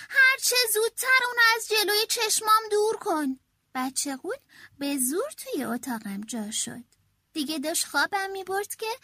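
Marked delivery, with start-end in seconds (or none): 0.1-3.4 stern mother. A narrator's reading. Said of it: "مادر گفت".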